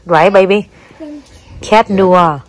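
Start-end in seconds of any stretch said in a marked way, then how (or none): 1.7-2.4 "cat noir" with noir as "nwah"; model pronunciation. Shown as a demonstration. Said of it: "Chứ không phải là cat on the wall".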